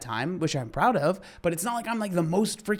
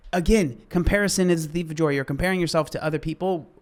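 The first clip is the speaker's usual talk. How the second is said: worked up; 2 semitones higher, 4 dB louder than usual. Real, not acted. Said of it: "I'm getting a little worked up".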